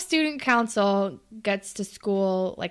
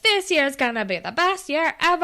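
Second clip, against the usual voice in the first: booming motivational speech; 5 semitones higher than usual. Retold or imitated. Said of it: "talking like a motivational speaker".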